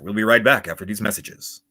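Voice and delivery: flat robotic Borg announcement; boring announcer. Shown as a demonstration. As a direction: drone it without feeling. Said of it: "That's a boring one".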